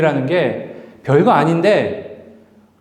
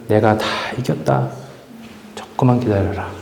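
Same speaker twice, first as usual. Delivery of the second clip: gentle reassurance; 2 semitones lower than usual. Acted. Jesus comforting his suffering people, mild steady reassurance. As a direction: soothe a suffering believer. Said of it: "그렇게 말씀하시는 거".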